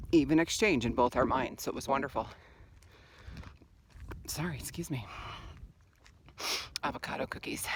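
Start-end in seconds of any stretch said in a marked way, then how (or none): 4.3-7.6 quick breathy whisper to a passer-by; whispered apology. Real, not acted. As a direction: whisper an excuse-me, mouth full. Apologizing while passing, mouth full.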